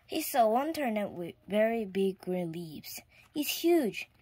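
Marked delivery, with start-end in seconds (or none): 3.3-4.1 farmer's line. A narrator's reading. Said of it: "thought the farmer".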